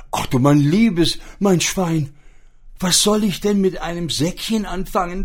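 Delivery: the starving pig, high and helpless; poor pig voice. Acted. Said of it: "sagte das arme Schwein".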